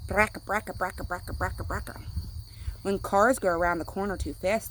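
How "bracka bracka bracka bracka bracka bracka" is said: put-on old car rattle. Shown as a demonstration. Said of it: "Old cars sound like this".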